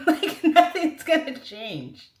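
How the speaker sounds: high, slow and drawn out; high slow sing-song. Retold or imitated. Her reply to divorce congratulations.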